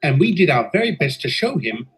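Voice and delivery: steady storytelling voice, looking back; story narration. A narrator's reading. Engine narrator telling listeners of the inspection, calm narration. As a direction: recount the tale evenly like a memoir.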